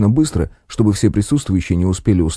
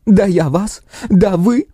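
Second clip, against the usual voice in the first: furious outburst; 12 semitones higher, slower than usual. Acted. Woman furious at the jokers.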